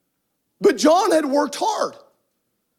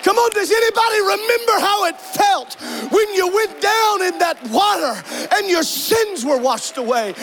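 rousing call; 6 semitones higher than usual. Real, not acted. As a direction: stir the room up, pitched high. Preacher rousing the congregation.

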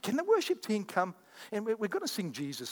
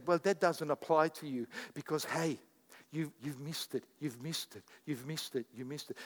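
sneering Satan voice, dropping softer and softer; taunting Satan; 3 semitones lower, 6 dB quieter than usual. Retold or imitated. Preacher voicing Satan taunting a believer, fading to a sneer. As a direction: whisper the accusation like a tempter. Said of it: "Satan will come up to you and say".

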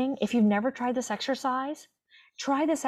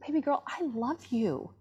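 put-on tender to her child self; 4 semitones higher than usual. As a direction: gently reassure a scared little girl. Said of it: "And I was like".

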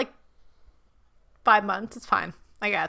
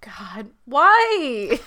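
whispered disbelief; 2 semitones higher, 6 dB louder than usual. Real, not acted. Reacting to cannibal veganism.

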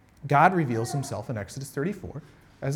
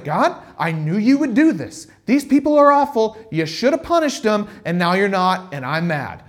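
sulky Jonah; 4 semitones higher, 7 dB louder than usual. Retold or imitated. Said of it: "he kinda goes like".

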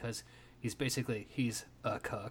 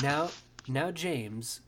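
posh condescending toff; 2 semitones higher, 6 dB louder, slower than usual. Retold or imitated. Rich man talking down to poor James, posh patronising. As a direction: talk down to him like a posh patronising gentleman. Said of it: "It's that kind of".

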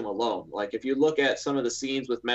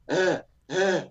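imitated hiccup sounds; 6 semitones higher than usual. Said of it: "and I'm just like".

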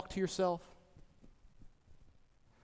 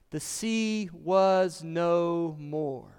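slow scripture reading; much slower than usual. Acted.

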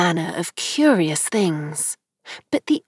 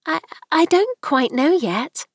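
gentle; 9 semitones higher than usual. A narrator's reading. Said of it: "very gently".

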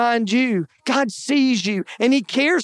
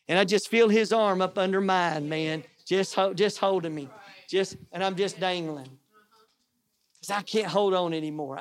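hushed confession; 5 semitones lower, 8 dB quieter than usual. Real, not acted. Pastor confesses exhaustion, dangling.

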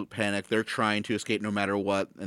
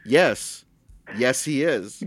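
firm, punched-out yes; playfully adamant, a bit raised; insistent retort; 4 semitones higher, 5 dB louder, much slower than usual. Pretend. Co-host insisting Deckard is human, insistent retort.

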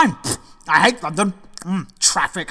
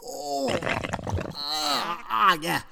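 queasy murmur; 6 semitones lower, 9 dB quieter than usual. Acted. King in queasy discomfort.

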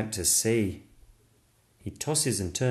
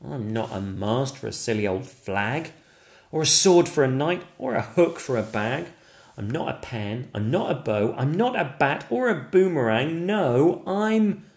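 higher, earnest little stick figure voice; protesting Stickman; 4 semitones higher, 4 dB louder than usual. Acted. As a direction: insist on who you are.

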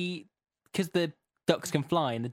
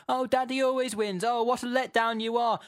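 disappointed; 6 semitones higher than usual. Retold or imitated. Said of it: "Pepper's really disappointed".

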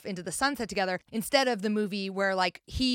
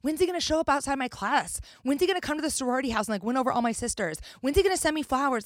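higher, impatient mock whining; rising string of expectant questions; college-age self; 4 semitones higher, faster than usual. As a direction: lightly act out a younger self demanding romance. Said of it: "especially when I was in college".

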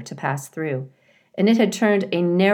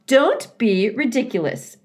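higher, brisk beaver wife voice; Missus Beaver interrupting; 7 semitones higher, 4 dB louder than usual. A narrator's reading. Missus Beaver cuts off her husband, high and firm. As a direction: cut in on him, high and firm. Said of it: "interrupted Missus Beaver".

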